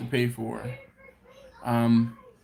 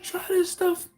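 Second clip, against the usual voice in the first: excited coworker. Retold or imitated. Coworker urging his wife to try the sauce, excited impression. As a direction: mimic him eagerly calling his wife over. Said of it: "He's like".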